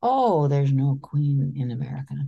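put-on a child's light British accent. Daughter answering dad in her British accent. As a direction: say it like an English schoolgirl, lightly British. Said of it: "In her very British accent".

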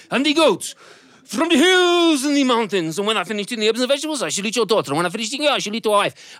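high, sing-song goat voice gloating over its meal; a gleeful goat who plans to eat everyone; high bleating goat boasting to the father; menacing goat. Acted.

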